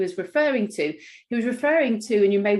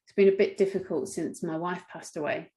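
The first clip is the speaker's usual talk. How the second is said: low, subdued grief; 3 semitones lower than usual. Retold or imitated. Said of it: "You might hear something like".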